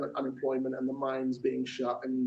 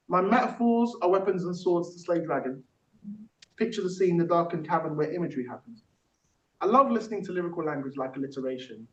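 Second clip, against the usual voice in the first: rhythmic spoken-word recital; poem performance; 2 semitones higher than usual. Acted. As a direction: perform it like a rap verse, on the beat. Performs own technique poem.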